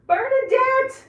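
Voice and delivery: high, loud sing-song greeting; cheerful high call to a viewer; calling out a name. Real, not acted. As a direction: call out to a viewer who just joined.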